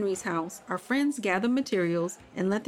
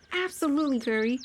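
excited; 6 semitones higher, faster than usual. Acted. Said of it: "Birdie hopped excitedly".

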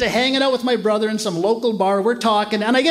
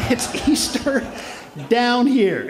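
laughing repeat; much slower than usual. Real, not acted. Comic repeating the local's line, laughing. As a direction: own voice, chuckling through the words.

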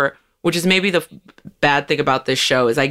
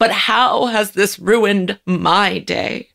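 mocking self-centred white woman; 4 semitones higher than usual. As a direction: drag it out, playing the fake-sympathetic bystander. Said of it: "and still go".

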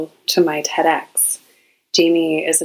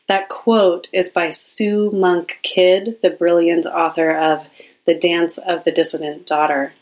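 normal talking voice

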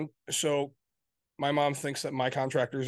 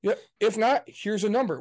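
curt brush-off; 5 semitones higher, 3 dB louder than usual. Retold or imitated. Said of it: "Be like".

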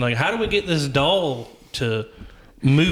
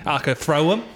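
Cockney barbarian. Pretend. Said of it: "Very Cockney".

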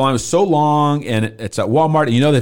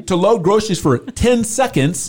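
exasperated; 5 semitones higher than usual. Retold or imitated. Exasperated husband retelling wait.

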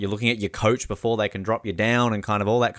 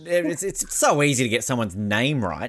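mock scolding; 2 semitones higher than usual. Host teases guest for getting coach's name wrong, mock scolding. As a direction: tease with pretend indignation.

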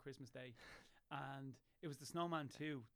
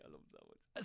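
soft whispered love; 3 dB quieter than usual. Real, not acted. Doting on his dog.

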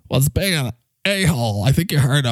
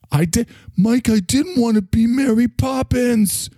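worked-up protest; 8 semitones higher than usual. Acted. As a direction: insist in a raised pitch, worked up at being pushed. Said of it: "You get so worked up".

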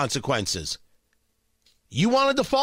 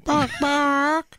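high, clipped animal bark-cluck; barnyard animal noise; 7 semitones higher than usual. Pretend. Host keeps the barnyard animal act going, high barking. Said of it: "That can't be you".

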